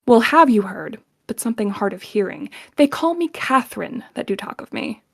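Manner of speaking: irritated, biting line reading; annoyed Kate, acted. Shown as a demonstration. Kate rebuffing an unwanted suitor, annoyed. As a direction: snap it at a man she can't stand. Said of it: "when you understand the scene, she's pissed".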